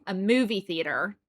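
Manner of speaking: "movie theater" in a plain American accent, r-coloured "theater"; American accent set against the British one. Shown as a demonstration. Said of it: "I have to go into the American accent".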